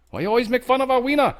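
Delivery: very high, fast, whiny put-on voice; high offended mock voice. China complains about being mocked, in a very high whiny voice. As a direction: squeal it like an insulted cartoon character.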